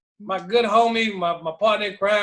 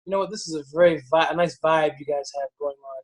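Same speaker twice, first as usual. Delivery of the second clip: retold quote; 5 semitones lower than usual. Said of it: "to, um".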